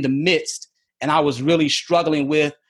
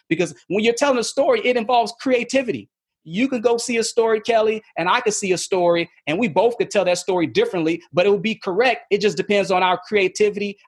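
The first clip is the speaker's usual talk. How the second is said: higher-pitched, eager explanation; excited; 4 semitones higher than usual. Real, not acted. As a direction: speak with real excitement, pitched up. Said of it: "can you hear his excitement in his voice".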